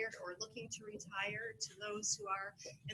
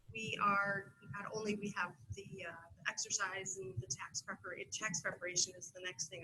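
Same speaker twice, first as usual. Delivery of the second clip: halting, with restarts and fillers; real tongue-tied stumble; stumbling over words. Real, not acted. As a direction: lose your way and restart mid-word. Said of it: "I'm stumbling over my words".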